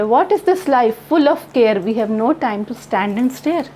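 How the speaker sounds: very slow, measured reading of each line; poem recitation. Acted. Teacher slowly reciting a poem to her class, measured. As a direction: read the poem aloud slowly for the students.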